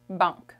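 "banque" with nasal A, final E dropped; Canadian French pronunciation. Shown as a demonstration. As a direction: end "banque" on the K sound. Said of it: "we don't pronounce it so much".

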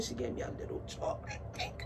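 very high, soft, quick squeak; tiny squeaky gush. Real, not acted. Given a little chocolate Tink, tiny squeal. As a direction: squeak it softly in delight. Gushing over tiny doll.

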